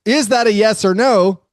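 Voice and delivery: pressing question. Retold or imitated. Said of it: "And the follow-up".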